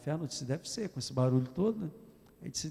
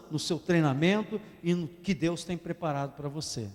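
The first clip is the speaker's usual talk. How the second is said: usual speaking voice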